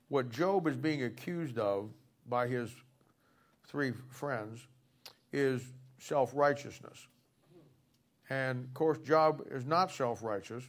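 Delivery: talking while chewing gum; words slurred around chewing gum. Real, not acted. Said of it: "I got gum in my mouth and my words aren't coming out very good".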